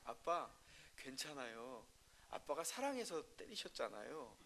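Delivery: softly voiced three-year-old; small child's voice. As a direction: lightly voice a tearful toddler reassuring dad. Three-year-old comforts father.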